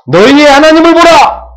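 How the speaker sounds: high, loud, drawn-out proclamation; full-force shout. Shown as a demonstration. Preacher showing congregation how to cry out, full-force shout. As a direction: cry it out as from a mountaintop. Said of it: "이렇게 외치라니".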